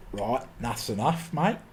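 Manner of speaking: lightly mimicked Australian accent. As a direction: put on a casual touch of Australian. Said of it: "eventually the Australians go".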